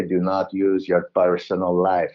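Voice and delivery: imitating a Russian teacher lightly; Russian accent. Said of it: "I'm doing a Russian accent there".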